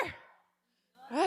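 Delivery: long called-out timber; Timber shout. Pretend. Calling to the audience, a long timber shout. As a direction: yell at the tree to fall. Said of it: "faut vous crier, là, le plus fort possible".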